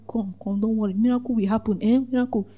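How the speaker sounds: soft, mild reassurance; soothing. Acted. Acting out comforting one quiet mourner, soothing.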